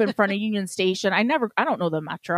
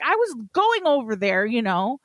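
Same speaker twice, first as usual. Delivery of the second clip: higher, retold road-rage protest; indignant protest; 4 semitones higher than usual. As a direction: protest to the driver, reliving the outrage. Honking at cab that cut in.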